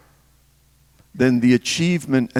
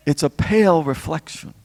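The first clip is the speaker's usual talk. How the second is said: "pale" lifted in pitch and leaned on; stress on pale; 4 semitones higher than usual. Real, not acted. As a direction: make "pale" the prominent word, pitched up. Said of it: "we're emphasizing the word pale".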